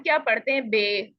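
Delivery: बे said with a long "ay" vowel; Urdu letter name. Shown as a demonstration. Teacher showing students the common habit, Urdu-style बे. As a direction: say बे the Urdu way, as "bay". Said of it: "Urdu में ऐसे ही पढ़ा है".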